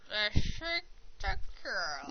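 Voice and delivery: very slow jolly Santa voice; Santa Claus voice. Pretend. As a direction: draw it out like Father Christmas. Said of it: "we read 'em in voices".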